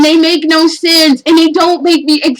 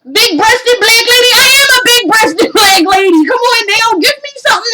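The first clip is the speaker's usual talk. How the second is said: incredulous; 7 semitones higher than usual. Real, not acted. Mocking VR offerings.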